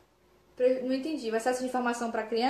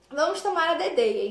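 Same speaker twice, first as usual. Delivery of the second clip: put-on baby talk; 4 semitones higher than usual. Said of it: "vai chamar a mamadeira de dedeia".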